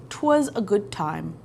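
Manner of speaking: lightly British, slow and proper; a hint of a posh British toff. Reading her category name in a mild British accent. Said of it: "I have that in a British voice".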